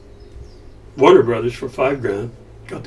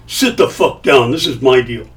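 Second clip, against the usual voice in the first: imitating a gangster boss. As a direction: lay down the law like a mob boss. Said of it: "Like some kind of a gangster".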